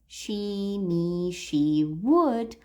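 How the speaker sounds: "she", "me", "she", "would" listed without punch; weak words. Shown as a demonstration. Teacher listing the words we don't emphasize, understated "she", "me", "would". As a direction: keep "she", "me", "would" unemphasized. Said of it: "are weak words".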